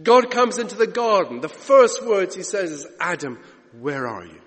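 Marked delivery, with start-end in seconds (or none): 3.0-4.4 God calling softly. Acted. Acts God calling in the garden.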